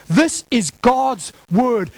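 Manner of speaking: slow, deliberate weight on "God's"; stress on God's. Shown as a demonstration. Preacher drives home whose word it is, stressing "God's" slowly. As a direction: spread the words out and lean on "God's". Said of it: "Emphasis on God".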